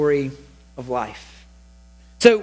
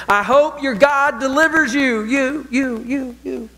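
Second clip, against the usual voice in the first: higher-pitched call after him, echo trailing away; mock scream; 6 semitones higher, slower than usual. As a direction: call it out as he goes in, last word echoing and fading. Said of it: "he's screaming that. He is telling him as he goes into there".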